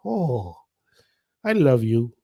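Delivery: soft, low, lightly acted swoon; swooning reaction. Smitten by an English person saying her name, mock swoon. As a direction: melt a little, quietly. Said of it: "when they say my name, it's like".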